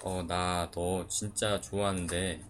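very soft, low, slow tender Seoul speech; a man shows he can confess in standard Seoul speech; Seoul-style confession. Pretend. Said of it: "표준어로 해도 괜찮아요".

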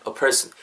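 "a person" with a weak, swallowed "a"; stress on PERSON. Shown as a demonstration. Teacher modelling natural stress for learners, "person" stressed and "a" reduced. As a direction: lean on "person", let "a" fade away. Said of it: "person에 강세 넣어주시면은".

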